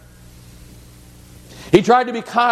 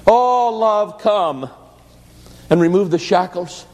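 prayer. A narrator's reading. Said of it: "began to pray".

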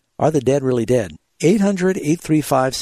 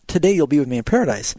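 wrong emphasis; faster than usual. Shown as a demonstration. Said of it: "The emphasis is not".

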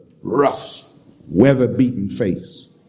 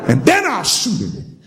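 laughing; 6 semitones higher than usual. Retold or imitated. Stranger laughs at own plan.

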